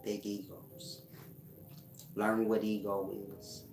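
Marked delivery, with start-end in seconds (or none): 0.0-1.0 softly spoken, trailing into breath; quiet but sure of being heard; hushed delivery. Shown as a demonstration. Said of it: "Make sure you tell 'em like that too".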